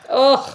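short loud "ugh" of distaste; disgusted groan. Real, not acted. Co-host reacting to hated word ma'am, disgusted groan. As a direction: groan in mild revulsion.

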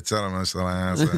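put-on "Tara Masalata" said in a Scouse accent; Liverpool accent. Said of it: "You really went for it there".

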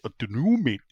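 badly faked Geordie, long vowel in dunno; Geordie accent. Host retelling his failed attempt, put-on Geordie accent. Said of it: "try and do a Geordie accent once".

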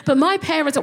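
flustered eager to impress; nervous high greeting. Retold or imitated. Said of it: "And I was like".

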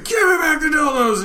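high put-on shout; mock scream. Clerk screaming at the thief in the street, high mock shout. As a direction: scream the demand, hammed up. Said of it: "So I'm screaming".

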